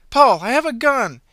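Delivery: shouted gun threat; bluffing shout. Acted. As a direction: bark a bluff to scare her. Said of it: "Allison tried a bluff".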